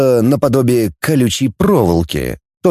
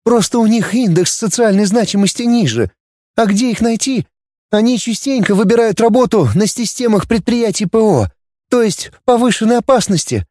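higher, subdued; girl Dana explaining; 11 semitones higher than usual. A narrator's reading. (девушка объясняет, выше, притихшая)

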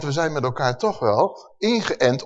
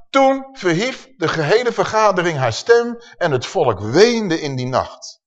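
raised, emphatic Bible reading; scripture reading; 3 semitones higher than usual. Acted. Preacher reads Numbers to the congregation, raised and emphatic. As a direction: read the verse out to a congregation.

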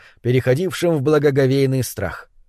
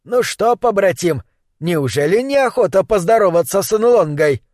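put-on old sorcerer voice; 5 semitones higher than usual. Sorcerer Nlonga speaking through Kran.

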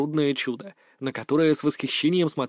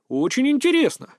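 mock admiration; 9 semitones higher than usual. A narrator's reading. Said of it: "восхитился я".

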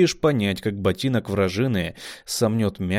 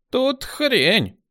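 much higher, calling out; urgent call; 3 dB louder than usual. A narrator's reading. Rat calling commander to the body, high. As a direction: call out a find.

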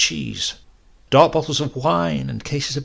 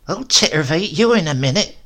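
louder, higher mock threat; threatening; 5 semitones higher, 5 dB louder than usual. A narrator's reading. Grandmother threatens Silas, louder and higher. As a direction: threaten him tartly. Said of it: "she threatened".

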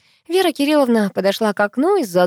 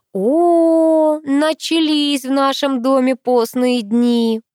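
grumbling; 8 semitones higher, 4 dB louder, much slower than usual. A narrator's reading. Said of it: "проворчала Геля".

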